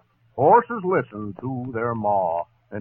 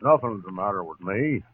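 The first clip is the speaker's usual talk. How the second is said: catch in throat. Acted. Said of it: "Just got a catch in my throat".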